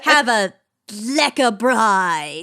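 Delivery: Afrikaans-tinged voice; South African accent. Acted. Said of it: "That's South".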